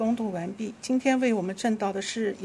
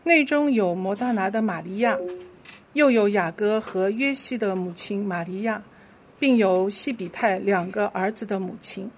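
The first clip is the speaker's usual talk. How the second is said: measured, clearly phrased Bible reading; scripture reading; 3 dB louder than usual. Real, not acted. Leader reads Scripture to the congregation, measured scripture reading. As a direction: lead the congregation through the verse.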